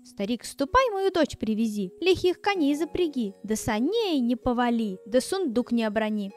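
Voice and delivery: angry command. Acted. Morozko angrily orders.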